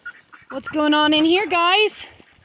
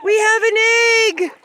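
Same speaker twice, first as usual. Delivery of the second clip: thrilled; 8 semitones higher, 4 dB louder than usual. Real, not acted. Finding an egg.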